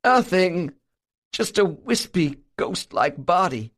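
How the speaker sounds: shiver as you describe the ghostly shape; shuddering. A narrator's reading. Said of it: "with a violent shudder".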